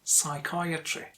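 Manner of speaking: psychiatry said carefully, syllable by syllable; careful syllable-by-syllable demo. Shown as a demonstration. Teacher shows learners how to practise a difficult word, careful demo. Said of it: "divide the word into syllables".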